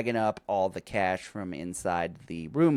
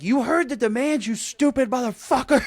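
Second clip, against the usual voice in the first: imitated angry yell, pitched way up; high, hammed-up furious shouting; Nick; 12 semitones higher, 4 dB louder than usual. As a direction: yell it like an outraged character. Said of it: "you see Nick yelling at the F B I".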